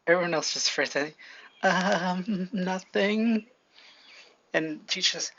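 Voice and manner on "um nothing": drawn-out, slightly higher acted hesitation; sheepish backing down. Classmates answering Deku's threat, acted sheepish retreat. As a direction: play cowed classmates, stretching the words.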